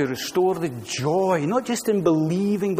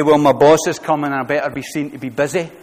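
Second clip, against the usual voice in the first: anxious worker; 5 dB louder than usual. Retold or imitated. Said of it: "He doesn't say".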